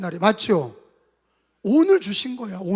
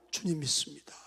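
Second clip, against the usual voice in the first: whisper; 5 semitones lower, 11 dB quieter than usual. Acted. Sudden whisper after shouts.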